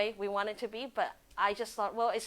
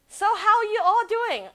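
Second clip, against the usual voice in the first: higher, louder cheery question; bright greeting; 10 semitones higher, 8 dB louder than usual. Real, not acted. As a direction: beam at the viewers. Greeting live viewers.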